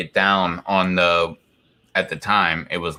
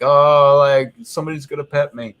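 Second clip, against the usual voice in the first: voicing the dog; 6 semitones higher, 5 dB louder than usual. Voicing what the dog thinks.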